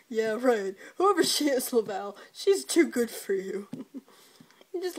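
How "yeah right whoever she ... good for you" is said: loud scornful jeer; mocking put-down. Dad jeering at his son, loud and scornful. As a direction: sneer it out loudly.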